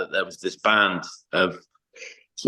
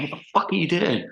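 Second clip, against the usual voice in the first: retold screaming; 10 semitones higher than usual. Tour manager bursting in on the band, mock screaming. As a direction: imitate an irate outburst without raising volume. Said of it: "comes out and starts screaming".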